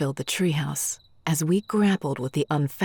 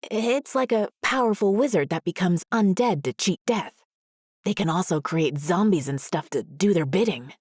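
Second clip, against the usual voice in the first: shivering; 4 semitones higher than usual. Acted. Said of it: "shared with a shiver".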